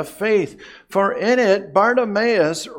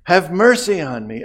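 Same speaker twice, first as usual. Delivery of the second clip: calling out louder for mercy; pleading call to Jesus, a touch louder; crying out; 5 dB louder than usual. Retold or imitated. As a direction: cry out to be heard over the crowd. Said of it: "he constantly is crying out".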